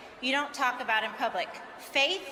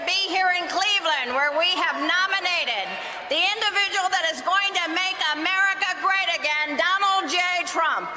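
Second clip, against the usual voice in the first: rally shout; 3 semitones higher than usual. Real, not acted. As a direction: lift it up for the crowd. Rallying convention crowd for nominee.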